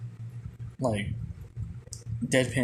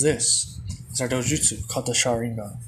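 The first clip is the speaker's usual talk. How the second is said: plain reading voice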